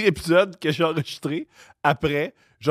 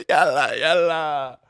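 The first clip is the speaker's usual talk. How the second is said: put-on Arabic accent in French; much slower than usual. Mocking the accent, drawn out.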